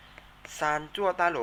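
ซานจั่วต้าโหล drawn out very slowly; very slow model of ซานจั่วต้าโหล. Shown as a demonstration. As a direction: stretch out every syllable of ซานจั่วต้าโหล. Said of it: "ออกเสียงตามนะครับ".

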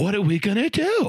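lightly imitated, exasperated Italian accent; Italian guy. Coworker asking what are we gonna do, mimicked Italian accent. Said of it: "he talked like this, Italian guy".

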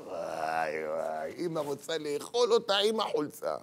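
seethe from deep down as if ready to devour her; seething mother. Acted. Mother enraged by daughter's retort, seething.

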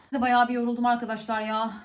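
breathless after running around; talking while catching breath. Real, not acted. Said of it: "Nefes nefese kaldım".

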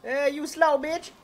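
drawn-out high taunting holler; high-pitched heckle; calling out. Pretend. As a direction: call out slowly at someone across the road. Calling out to a passer-by.

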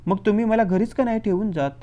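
a hopeful, lifted plea. Acted. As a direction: ask it as if hoping hard. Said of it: "मोठ्या आशेनं म्हणाला". (आशेनं विचारलेला प्रश्न)

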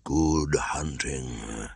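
a panther's eerie, drawn-out call; long drawn call. Acted. Panther calling to the jungle, very slow. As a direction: stretch good hunting out very slowly and breathily. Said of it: "cried a long, long".

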